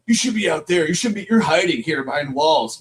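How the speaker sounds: punchy, insistent telling-off in imitation; mock lecturing. Teen character lecturing people trying to survive, mock lecturing. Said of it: "the female lecturing the male character".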